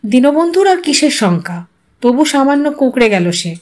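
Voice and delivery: usual speaking voice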